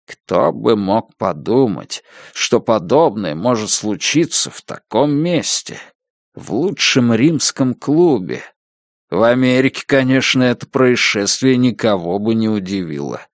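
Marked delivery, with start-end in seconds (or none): 0.1-8.4 slow, saddened wondering; sad. Acted. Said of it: "Холт печально покачал головой". (печально и медленно)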